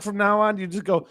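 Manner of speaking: normal talking voice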